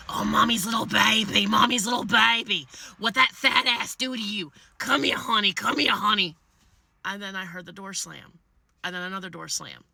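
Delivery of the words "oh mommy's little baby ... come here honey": cooing to bird. Retold or imitated. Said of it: "I hear the sounds of".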